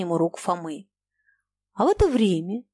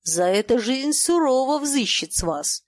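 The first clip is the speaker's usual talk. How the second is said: plain reading voice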